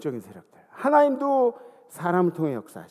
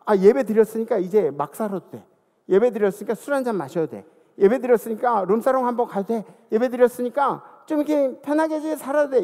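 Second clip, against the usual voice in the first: mock careless believer; 3 semitones higher, 6 dB louder than usual. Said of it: "어떤 사람들은 막".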